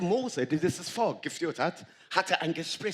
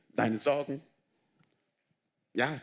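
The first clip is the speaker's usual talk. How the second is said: usual speaking voice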